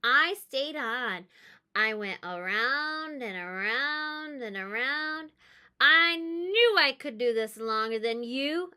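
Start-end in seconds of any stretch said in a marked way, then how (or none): 5.8-8.7 loud, proud yell; proud shout. Acted. Girl on the carousel yells proudly to her brother. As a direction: crow it over your brother. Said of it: "I shouted to my brother".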